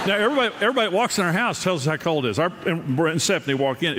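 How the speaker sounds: ordinary talk, nothing marked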